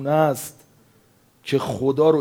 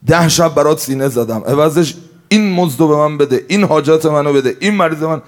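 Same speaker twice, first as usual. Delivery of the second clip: louder, bargaining tone; a hint of an entitled servant; demanding mourner; 4 semitones higher, 5 dB louder than usual. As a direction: insist on your wages like a worker. Mourner demanding payment for service.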